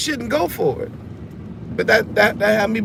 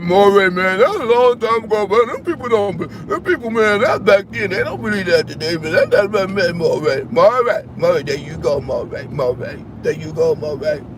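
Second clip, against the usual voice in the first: imitating the viewers; 4 semitones lower than usual. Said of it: "If y'all like".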